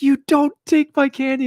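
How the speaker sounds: put-on high-pitched devilish child tantrum; enraged little daughter. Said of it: "turned into, like, the devil".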